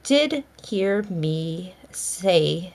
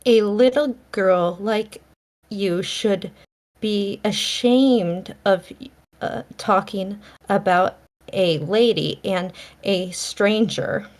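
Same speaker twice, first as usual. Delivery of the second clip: severe. Acted. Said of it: "she said severely".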